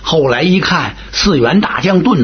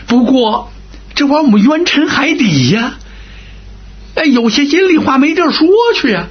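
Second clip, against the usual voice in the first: high, aggrieved pleading; hammed-up plaintive general stirring guilt; Huang Ming lamenting; 7 semitones higher than usual. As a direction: wail his grievance to sway the old man.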